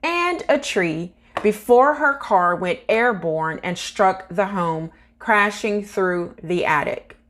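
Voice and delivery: measured news-article read, slightly lifted pitch. Acted. Vlogger reads crash report to viewers, measured news read. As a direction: read the report out with deliberate emphasis.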